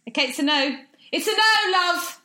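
high, loud theatrical refusal; mock-hurt high cry of it's a no; mock indignant no. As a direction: ham up being turned down. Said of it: "mock-dramatic refusal".

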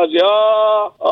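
drawn-out imitated "ah" cries; mock crying out. Shown as a demonstration. Caller demonstrates the ending of his requested montage, mock cries. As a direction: draw out each mock "ah". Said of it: "στο τέλος να φωνάζει".

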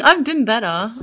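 giggling through the words; laughing. Real, not acted. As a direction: laugh it out half-joking. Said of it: "Not really".

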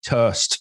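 "turst", its vowel flattened Leeds-style; northern pronunciation. Shown as a demonstration. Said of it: "I mean, certain words".

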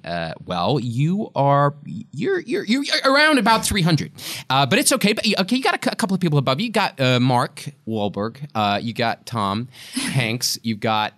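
high, hedging American agent voice; put-on American agent, stumbling reassurance. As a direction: stall and soften it in an American accent. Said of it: "fantastic impression of your American agent".

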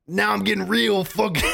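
breaking into laughter mid-line; line dissolves into giggles; laughing through the line. Shown as a demonstration. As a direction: try the villain line but crack up. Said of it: "I can't do it, dude. I'm just laughing".

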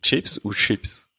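tch in the first chips, sh in the second; "chips" both ways, slowly compared; contrast two "chips". Shown as a demonstration. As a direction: slowly set tchips against ships. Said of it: "est-ce qu'on dit".

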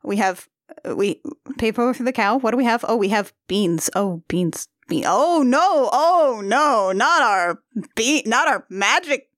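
playacting dawning mock dismay at the beans; wife cons a boy over beans, hammed-up dismay; wife working the con. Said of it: "the one that's like".

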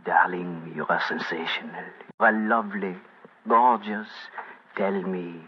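put-on low, soft French-accented seduction. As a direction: croon softly like a French lover, in a French accent. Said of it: "whispering in my fine French accent".

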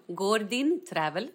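name said with an English accent. Shown as a demonstration. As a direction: say it the English way, drawn out. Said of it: "Fast på svenska".

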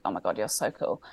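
low, soft awed gushing; starstruck hushed gush. Retold or imitated. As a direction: breathe it out starstruck. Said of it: "and I was like".

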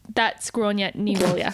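"Grania ni Walia" as GRAWN-ya nee WALL-ya; the host spells the name out, then says it in Irish; Irish pronunciation. Shown as a demonstration. Deliberate Irish "Grania ni Walia". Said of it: "is how you say her name".

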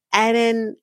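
Edinburgh split in two, EDIN ... BORO; imitated mispronunciation. Host mimicking how Statler said it, mispronounced. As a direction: mimic her botched Edinburgh, ending in BORO. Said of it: "the way she said it because it's not how you say it".

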